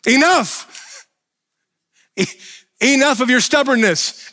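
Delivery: high, loud commanding rebuke; God's booming enough. Pretend. God rebuking a stubborn Paul, loud and commanding. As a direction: shout it like God losing patience. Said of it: "God is just like".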